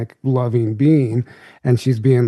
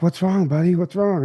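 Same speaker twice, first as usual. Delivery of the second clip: gentle concern; 4 semitones higher than usual. Retold or imitated. Consoling crying boy on knees.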